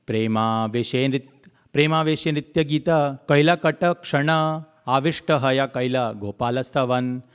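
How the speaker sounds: slow, measured chanting of the verse; scripture recitation. Acted. Preacher recites the verse to the congregation, slow and chanted. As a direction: intone the Bengali verse deliberately, line by line.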